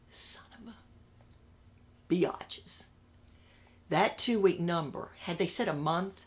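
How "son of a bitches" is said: drawn-out, slow whispered insult; slow whispered curse. Retold or imitated. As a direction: hiss the curse under your breath, slowly. Muttered curse at the bosses.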